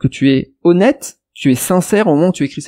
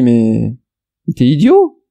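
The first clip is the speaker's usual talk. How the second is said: incredulous retort; 3 semitones lower, slower than usual. Retold or imitated. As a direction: imitate someone taken aback, pitch jumping up. Retold exchange, other person scoffs. (incrédulité indignée, imitée)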